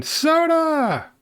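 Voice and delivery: sudden high excited shout of soda; excited squeal. Real, not acted. Greets viewer's soda suggestion.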